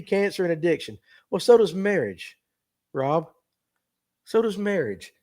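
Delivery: talking around a dip; words round a lip of tobacco; lip full of dip. Real, not acted. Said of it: "I say that while I have a, a dip in my mouth".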